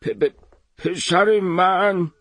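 stammering, very slow disbelief; a puzzled old man stumbling over the words; surprised. Acted. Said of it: "با تعجب پرسید".

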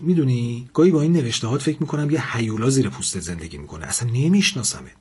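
angry. Acted. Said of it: "لاله عصبانی گفت".

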